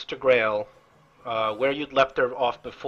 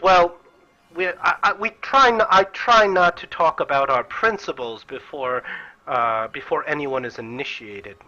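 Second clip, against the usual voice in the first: Sister Grail correcting; 2 semitones higher than usual. Acted. Sister Grail setting the Doctor straight about the harp.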